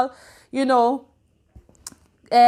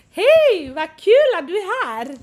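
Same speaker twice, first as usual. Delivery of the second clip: excited greeting; 4 semitones higher, 5 dB louder than usual. Real, not acted. Greeting a friend joining live.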